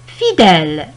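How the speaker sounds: "Fidèle" with an open è, falling low. Shown as a demonstration. Teacher modelling an example, "Fidèle" with open è.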